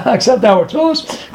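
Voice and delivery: questioning repeat with a rising end; scoffing question, rising on tefillos; incredulous echo. Acted. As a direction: echo it with a laugh, as if absurd.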